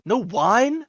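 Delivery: high, drawn-out pampered scorn; haughty star, disappointed by the meal; spoiled disdain. Acted. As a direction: sniff at it like a pampered celebrity.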